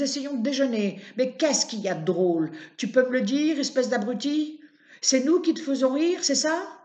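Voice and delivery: put-on shrill furious shriek from an old woman at her window; old neighbour woman screaming insults at Martin; furious yelling.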